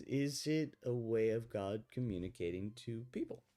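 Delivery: usual speaking voice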